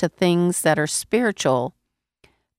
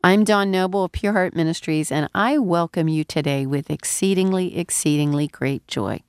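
deep, gravelly, nasal from a cold; hoarse with a head cold. Real, not acted. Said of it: "so my voice sounds deep and gravelly and nasal".

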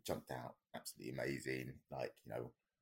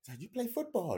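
shouted question; 5 dB louder than usual. Retold or imitated. Instructor shouting over wind.

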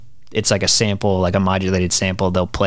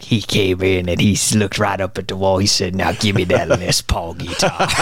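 put-on old-timey shop owner voice; 2 semitones lower than usual. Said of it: "that old-timey, like, guitar shop owner".

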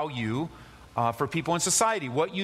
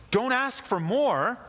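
higher, slow, pressing each word; slow, raised plea to the church; emphatic preaching; 7 semitones higher, slower than usual. Acted. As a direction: drive it home slowly from the pulpit. Preacher urging congregation.

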